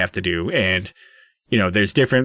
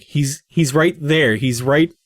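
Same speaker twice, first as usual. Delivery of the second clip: higher, slow, halting insistence; mildly upset, struggling to get the words out; a little emotional; 4 semitones higher, slower than usual. Acted. Father pleads that he's right there, a little emotional. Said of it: "getting a little emotional".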